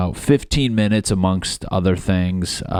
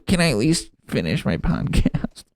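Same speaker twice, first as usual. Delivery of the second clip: mock plea; 9 semitones higher than usual. Pleading with coworkers.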